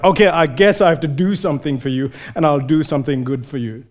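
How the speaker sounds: fast, grudging and dismissive, trailing off; begrudging, hurried favour; irritated sigh-through. Retold or imitated. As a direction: brush them off like a busy man. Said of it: "irritated man is like".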